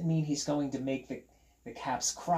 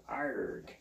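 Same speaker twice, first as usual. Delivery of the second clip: short throwaway pirate noise; pirate "arr"; 5 dB quieter than usual. Pretend. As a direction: give a playful pirate arr. Pirate noise on donning pirate cap.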